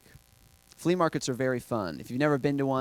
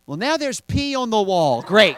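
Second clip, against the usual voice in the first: mock exasperation; 8 semitones higher, 9 dB louder than usual. Mock complaint about the bit.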